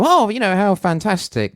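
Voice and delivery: high-pitched, delighted "oh"; acting out a beaming, pleased reaction; smiling delight. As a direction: react all smiles, pitch leaping up. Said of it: "all sort of smiles to go".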